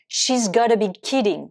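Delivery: "She's gotta" with the S kept; spoken contraction "She's gotta"; contracted she's gotta. Shown as a demonstration. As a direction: run "has got to" into "'s gotta". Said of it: "Contraction donc de".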